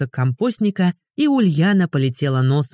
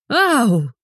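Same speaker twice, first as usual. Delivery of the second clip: higher, sharp yelp of pain; howl of pain; 8 semitones higher than usual. A narrator's reading. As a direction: wail as she hits the ground again. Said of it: "взвыла".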